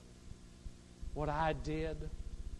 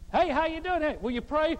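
breezy, higher chatty hello; casual greeting; 10 semitones higher, 7 dB louder than usual. Retold or imitated. Pastor mimics a churchgoer chatting before he prays, breezy and higher. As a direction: toss it off like small talk before the prayer. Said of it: "you ever notice how people pray and their voice changes".

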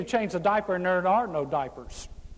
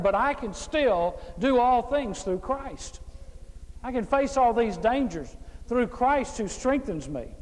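scripture reading with refrain. Acted. Preacher reading Paul's hardships to the congregation, litany-like. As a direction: read it as a litany of trials answered by faith.

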